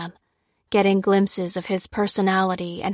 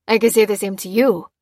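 grinning; 4 dB louder than usual. A narrator's reading.

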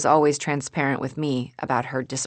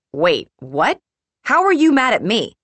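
whisper yelling; 8 semitones higher, 9 dB louder than usual. A narrator's reading. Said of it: "We're whisper yelling".

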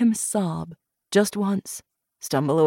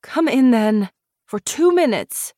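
rough; 7 semitones higher, 4 dB louder than usual. Acted. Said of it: "She said roughly".

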